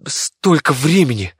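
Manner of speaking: slow, loud dismay; first cry at lost time. Acted. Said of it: "не мог подобрать ни ругательных слов".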